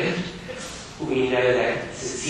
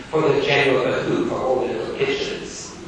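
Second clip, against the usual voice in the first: stern schoolmaster; faster than usual. Acted. Gradgrind voiced in reading.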